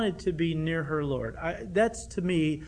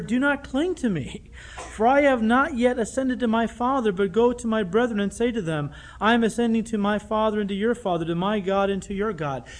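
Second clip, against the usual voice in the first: preaching Jesus' words; 4 semitones higher, 5 dB louder than usual. Acted. Quotes Jesus' words loudly.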